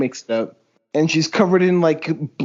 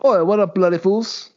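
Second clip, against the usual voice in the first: put-on failed British accent. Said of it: "that wasn't British at all".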